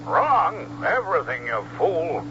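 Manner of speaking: exasperated imperial scolding; indignant outburst. Acted. Emperor berates his general.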